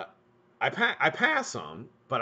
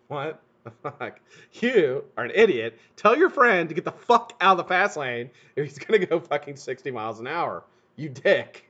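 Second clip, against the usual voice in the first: imagined scolding; 3 semitones higher, 4 dB louder than usual. Retold or imitated. Scolding his son in the truck.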